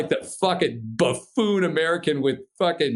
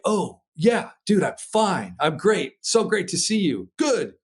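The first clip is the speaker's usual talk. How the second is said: eager reassurance; 6 semitones higher, slower than usual. Retold or imitated. Acted flustered reply to the rescuer.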